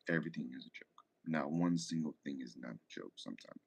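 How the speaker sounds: drops to a whisper mid rant; half whisper. Real, not acted. Streamer musing to chat about social media, whispered. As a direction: say it under your breath, almost to yourself.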